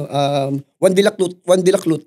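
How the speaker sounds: "Juan de la Cruz" lisped, "Cruz" said like "Clut"; "Juan de la Cruz" with the r as an l, sliding over the name. Retold or imitated. Imitating how he mocks her lisp, "Juan de la Cruz" said "Clut". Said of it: "Dahil bulol nga ako".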